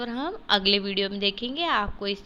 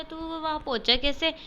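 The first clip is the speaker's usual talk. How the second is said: puzzled mother; 6 semitones higher than usual. Acted. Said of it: "इसलिए माँ ने पूछा".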